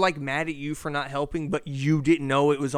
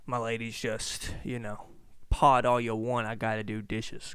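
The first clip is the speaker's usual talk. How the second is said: mimicking girlfriend; 6 semitones lower, 4 dB quieter than usual. Girlfriend voiced, mock dismissive.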